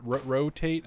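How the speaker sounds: "rotate" with an odd accent, tried haltingly; oddly accented word. Real, not acted. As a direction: stumble on "Ro-", then repeat "rotate" questioningly. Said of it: "weird, weird accent on that".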